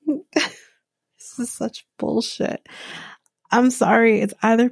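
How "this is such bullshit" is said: slow, laughing disbelief. Real, not acted. Vlogger laughing at a staged onesie scene, disbelieving.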